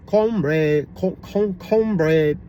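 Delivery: "cornbread" with no R, in a mimicked Asian accent; imitated Asian accent. Vlogger showing what nobody in his community says, imitated Asian accent. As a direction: copy an Asian-accented "cornbread", repeating the first syllable. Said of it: "That is definitely an Asian accent".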